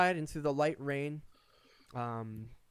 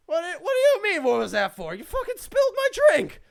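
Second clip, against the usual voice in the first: angry patron yell; 10 dB louder, faster than usual. Acted. A second patron's angry retort.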